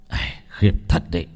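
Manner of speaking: low, breathy mutter under his breath. A narrator's reading. Old man muttering to himself at the bloody village, under his breath. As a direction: grumble it to yourself, barely voiced. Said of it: "Ông Trần lẩm bẩm".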